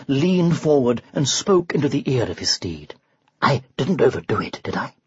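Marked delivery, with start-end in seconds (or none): 3.4-4.9 anxious. Acted. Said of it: "he asked anxiously".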